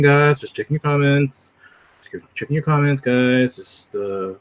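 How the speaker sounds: laid-back streamer impression, idly filling time; Vocab, flat tone. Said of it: "like, flat tone. He's just, like".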